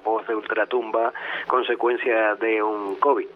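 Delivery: real sick voice from covid; voice from the grave. Real, not acted. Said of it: "Pedirles disculpas por esta voz de ultratumba".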